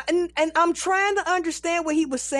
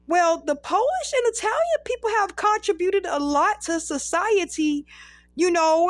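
higher-pitched, innocently bubbly chatter; 5 semitones higher than usual. Retold or imitated. Performer rambling innocently to an angry man, bubbly. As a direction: ramble on brightly, imitating a calm, bubbly self. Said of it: "I was very still bubbly".

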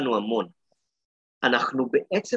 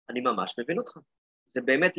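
gentle understanding; 2 semitones lower, 4 dB quieter, faster than usual. Shown as a demonstration. Teacher to angry boy after the penalty, soft understanding. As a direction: reassure the boy with quiet empathy. Teacher models empathic reply to child.

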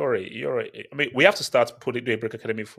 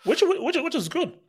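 mock praise; 13 semitones higher, 4 dB louder than usual. Mock surprise at Benzema goal.

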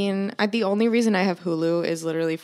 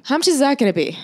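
a higher, slightly anxious take on the question; mock worried adult; 5 semitones higher, faster than usual. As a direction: play a grown-up hearing about new tires. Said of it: "You need new tires".

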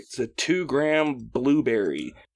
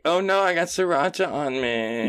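slightly higher mocking complaint; mock whiner; 4 semitones higher than usual. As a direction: lightly imitate someone fussing over nothing. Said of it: "there's a bunch of pussies down there".

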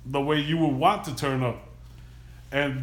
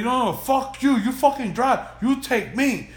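higher, louder yell broken by laughter; retelling passengers screaming at the driver, laughing; laughing mock yell; 10 semitones higher, 4 dB louder than usual. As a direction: imitate the drunk guys hollering through a laugh. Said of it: "they're screaming at the taxi guy".

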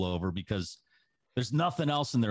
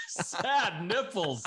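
laughing repeat; 7 semitones higher, much slower than usual. Real, not acted. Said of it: "that's a good one".

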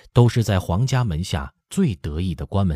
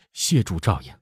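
choked up. Acted. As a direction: fake tearful thanks. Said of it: "哽咽着说". (假装哽咽)

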